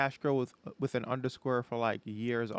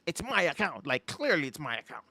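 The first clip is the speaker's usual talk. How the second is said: louder, replayed indignant protest; indignant insistence; 5 dB louder than usual. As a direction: insist on it, acting out the dispute. Acted argument with account support.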